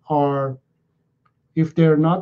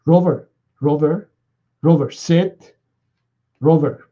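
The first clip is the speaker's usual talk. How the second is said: imitating a repetitive owner. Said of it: "The owner goes".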